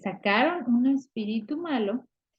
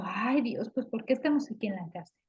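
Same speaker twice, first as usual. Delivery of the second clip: soft, hushed lament, a touch of pretend crying; mock weeping lament; 6 dB quieter than usual. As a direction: whisper it like a sad prisoner asking why. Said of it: "pues, llorando". (lamento suave de preso, medio llorando)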